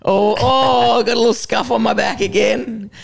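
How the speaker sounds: high, teasing scold; mock scolding doctor. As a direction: ham up a doctor telling Nick off. Mocking the doctor and Nick.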